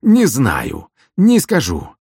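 high, loud refusal; agitated cry. Acted. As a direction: blurt out the refusal.

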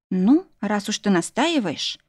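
slow, smiling, feigned reluctance; mock sigh. Bride teasing her husband, a slow mock sigh. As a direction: sigh as if giving in, but playing. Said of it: "улыбаясь, притворно вздохнула".

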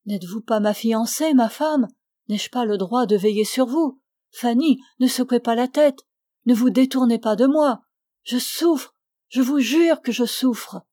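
acted lover's entreaty; impassioned pleading. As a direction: press her with wounded urgency. Suitor pleads with his fiancée.

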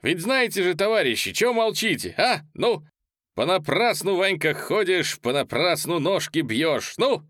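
high, loud urging into song; rousing call. Acted. Polezhaev rousing guests to sing Vanka, loud. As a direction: whip up the room.

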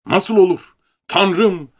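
high, loud cry of disbelief; shouting in shock. A narrator's reading. Clerk at his master's feet, shouting in disbelief. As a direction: shout it out at the top of your voice. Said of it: "avazım çıktığınca bağırmaya başladım".

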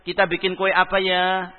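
put-on mother cheerfully coaxing her child to bake; inviting mother. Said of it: "beda intonasinya".

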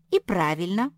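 exclaiming. A narrator's reading. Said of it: "воскликнула Марсия".

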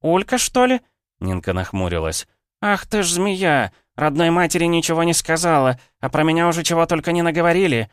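high, loud, spitting outrage; furious village woman. Acted. Ninka rages about her daughter, high and loud.

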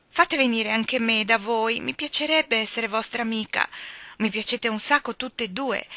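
put-on lively, light young woman's voice; a flighty girl gossiping breezily; lightly voiced chatterbox girl; chatty girl. Phil pleading with the girls.

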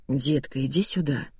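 smooth, tender invitation; warm and smooth. Acted. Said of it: "Голос Ганса был как кожа, гладкий, тёплый".

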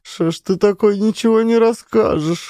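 high, tearful reproach; sobbing plea. A narrator's reading. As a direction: weep it out, begging for the truth. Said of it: "рыдала Маришка".

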